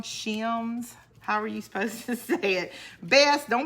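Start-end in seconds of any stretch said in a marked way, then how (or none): 0.0-0.9 "Shims" asked with a rise, unsure; questioning pronunciation. Shown as a demonstration. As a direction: try "Shims?" as a hesitant question. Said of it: "Am I saying it wrong?".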